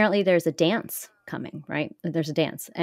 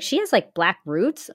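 puzzled question; 3 semitones higher, slower than usual. Retold or imitated. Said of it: "I was like".

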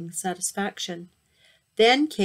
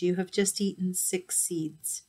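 sly gloat; 7 dB quieter than usual. Acted. Hades springs his trap.

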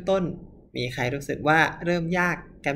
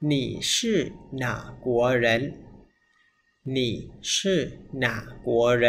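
slow word-by-word; much slower than usual. Shown as a demonstration. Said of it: "หนึ่ง สอง สาม".

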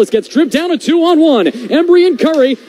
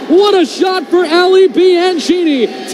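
excited shout; 5 semitones higher than usual. Real, not acted. Right after a goal call.

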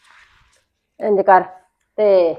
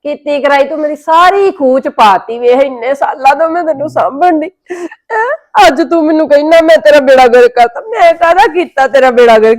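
hammed-up tearful whining; fake crying; 3 semitones higher than usual. Sister mock-cries at her brother over the money, hammed-up whine. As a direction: put on a mock sob to guilt him. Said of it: "ਤੈਨੂੰ ਤਾਂ ਰੋਣਾ ਵੀ ਨਹੀਂ ਆਉਂਦਾ".

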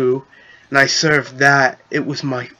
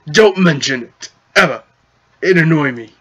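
goblin chief voice; faster than usual. Acted.

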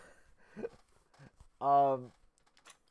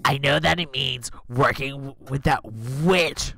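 grandma voice; 5 dB louder, slower than usual. Acted. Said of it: "Gran's voice".

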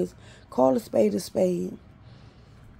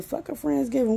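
higher scornful echo of Friendsgiving; scornful repeat; 4 semitones higher than usual. Real, not acted. Mocking sister's Friendsgiving, higher and scornful. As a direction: spit the word back higher in disgust. Ranting about sister's plans.

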